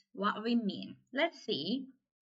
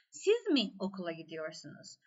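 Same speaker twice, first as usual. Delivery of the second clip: "Siz" pitched up, the rest falling away low; stress on Siz; 3 semitones lower than usual. Shown as a demonstration. Teacher demonstrating the third sentence, stress on Siz. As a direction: hit "Siz", then let the rest drop. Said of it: "Siz vurgulu".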